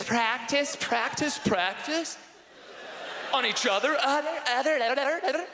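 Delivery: put-on high, rushed, teasing girl voice; coy girls.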